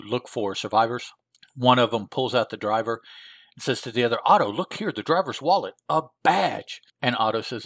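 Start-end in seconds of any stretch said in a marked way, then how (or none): 4.3-6.8 higher, swooping comic-book exclamation; mock excited henchman; acted discovery. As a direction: call your partner over to see. Henchman voiced showing his discovery.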